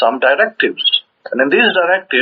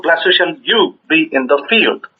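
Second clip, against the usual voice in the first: slow verse reading, "you" set off as if quoted; deliberate, weight landing on "you"; stress on you; 2 semitones higher, slower than usual. Shown as a demonstration. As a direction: pick out "you" with clear emphasis. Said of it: "open quote".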